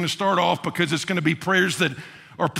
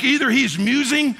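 mocking tone; 5 semitones higher than usual. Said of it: "starts to put the needle into the prophets".

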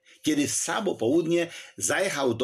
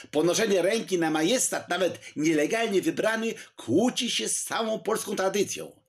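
fervent protest; 8 semitones higher than usual. A narrator's reading. Poniatowski continues his protest.

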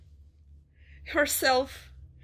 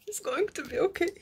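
reassuring; 5 semitones higher, 3 dB quieter, faster than usual. Real, not acted.

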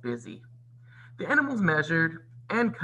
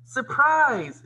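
loud, high, gleeful shout; 12 semitones higher, 7 dB louder than usual. A narrator's reading. Mice and birds reveal the dress, shouting. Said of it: "shouted the mice and birds".

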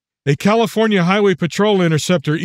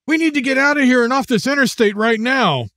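put-on tense young man voice; 7 semitones higher than usual. The speaker voiced as character.

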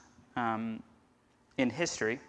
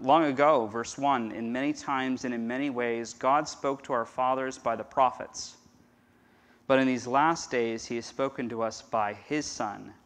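scripture reading. Acted. Pastor reading Hebrews to the congregation, measured. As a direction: read each phrase with care.

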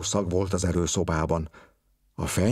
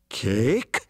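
a hint of alarm, slightly higher; frightened question; 3 semitones higher than usual. A narrator's reading. Investigator fears the blue horse, mildly frightened. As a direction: ask it with a small startled fear. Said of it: "kérdezte ijedten".

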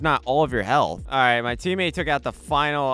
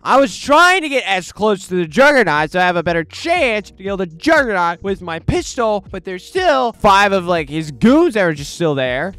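frustrated; 6 semitones higher, 6 dB louder than usual. Real, not acted. Frustrated after dying.

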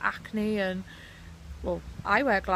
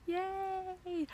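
excited yay; 11 semitones higher, 6 dB quieter than usual. Real, not acted. Excited about Disney anniversary.

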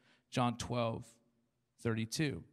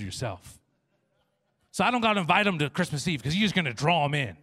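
mock-pleading louder prayer; lazy believer voice; 2 semitones higher, 5 dB louder than usual. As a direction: talk God out of your homework. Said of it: "We're like".

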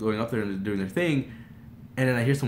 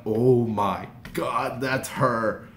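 slow, stunned awe; in disbelief; much slower than usual. Retold or imitated. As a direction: draw it out slowly, as if frozen in your seat. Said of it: "like, in disbelief".

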